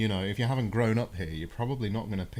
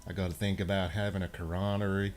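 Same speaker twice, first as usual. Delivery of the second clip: attempted American accent; 3 semitones lower, 6 dB quieter than usual. Shown as a demonstration. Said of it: "I gotta get into American mode".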